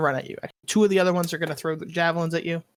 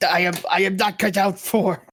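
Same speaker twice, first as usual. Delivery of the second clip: lightly voiced bugbear giving up; a hint of a monster bailing out, emphatic; quitting in mild bugbear exasperation; fed-up bugbear; 3 semitones higher than usual.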